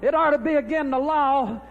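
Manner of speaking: agitated rant, loud bursts; heart-pill panic about his rival; worked-up ranting. Real, not acted. Manager frets on air, loud agitated rant. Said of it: "calm down".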